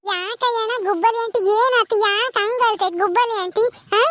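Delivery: put-on high-pitched little kid voice; curious child. Child asks why aunty is crying, childlike. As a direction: question like a puzzled small child.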